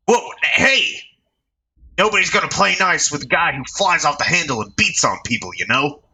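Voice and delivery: high put-on reporter voice; alarmed reporter. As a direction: stop him mid-swing. Reporter scolding gang leader.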